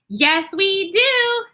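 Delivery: high, excited calling out; eager twins. Acted. Twins call out to Mister Scary, high and excited. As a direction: squeal it like an eager little girl. Twin agrees.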